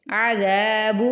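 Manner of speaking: عذاب with ذ on the upper teeth tips; tongue-tip dhal. Shown as a demonstration. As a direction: stretch the ذا in عذاب. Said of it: "زبان اوپر والے دو دانتوں". (عذاب میں ذال دانتوں سے)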